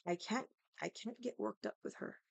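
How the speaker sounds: retold soft, controlled voice; calm mother. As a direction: imitate a mom refusing to get worked up. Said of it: "my mom is talking very calm".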